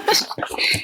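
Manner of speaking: high, slow, laughing oh my gosh; high giggle of delight. Real, not acted. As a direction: laugh through it, thrilled. Opens a cool gift.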